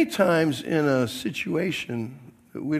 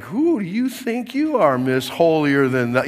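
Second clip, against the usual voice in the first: offended retort; 5 dB louder than usual. Retold or imitated. Husband snapping back at his wife Sue, mock-offended and louder. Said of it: "we get a little offended".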